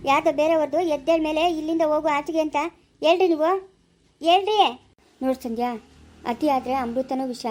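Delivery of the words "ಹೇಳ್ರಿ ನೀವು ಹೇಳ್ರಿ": insistent demand. Acted. Wife insists husband tell her.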